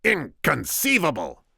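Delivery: high, loud, drawn-out exclamation; outraged cry. A narrator's reading. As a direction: cry it out slowly in disbelief. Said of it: "the Sicilian cried".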